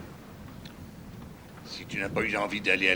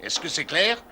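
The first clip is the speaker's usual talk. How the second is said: fâché; 3 semitones higher, 4 dB louder than usual. Acted. Dispute conjugale.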